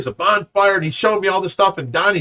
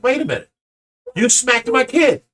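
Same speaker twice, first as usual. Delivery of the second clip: higher pitch, incredulous confrontation; acted disbelief; 6 semitones higher than usual. Father confronting the man who smacked his kid, acted disbelief. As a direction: act out disbelief, drawing out the accusation.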